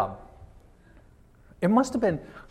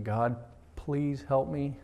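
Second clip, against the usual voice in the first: hushed prayer; 5 dB quieter, much slower than usual. Retold or imitated. Retold anxious prayer.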